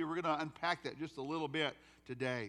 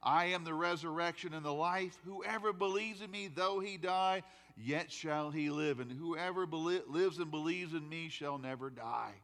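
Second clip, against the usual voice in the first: 1 scripture recitation; 2 semitones higher than usual. Acted. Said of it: "You know the words".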